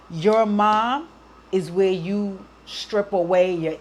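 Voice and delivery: slow, halting words, fighting tears; choked up, pushing through slowly; holding back tears. Real, not acted. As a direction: speak slowly as if about to cry. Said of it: "I'm not gonna cry on this".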